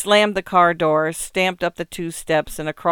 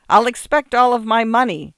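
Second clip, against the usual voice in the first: higher, louder parting shout; 6 semitones higher, 6 dB louder than usual. A narrator's reading. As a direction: call it after him out the door. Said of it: "while the artist shouted".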